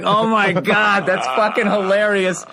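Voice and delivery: high, slow, stunned delight; delighted disbelief. Retold or imitated. Watching a heckle destroy a fellow comic, slowly delighted. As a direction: savor the joke, amazed. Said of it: "I was like".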